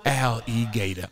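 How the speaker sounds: slow, stretched Cajun pronunciation; Louisiana accent. Acted. Naming the gator puppet, slow Louisiana accent. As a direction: draw the name out in Louisiana style. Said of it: "So his name's Alligator from the bayou".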